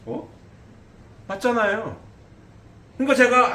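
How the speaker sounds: ordinary talk, nothing marked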